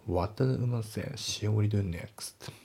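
slow, careful English question; measured test-question read-aloud; slow model reading. Shown as a demonstration.

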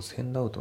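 センドアウト run together as one word; linked pronunciation. Shown as a demonstration. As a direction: link the d of センド straight into アウト. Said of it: "リンキングでセンドアウト". (リンキングでつなげたセンドアウト)

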